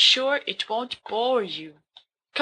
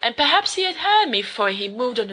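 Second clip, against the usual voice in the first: dramatic story reading; faster than usual. Acted. Remus reads Poe to his friends, dramatic gothic narration. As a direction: read Poe like a madman confessing.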